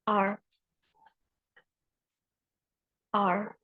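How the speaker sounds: low, soft R as a lesson example; R sound demo. Shown as a demonstration. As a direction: model the English R, softly, then repeat. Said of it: "three median consonant".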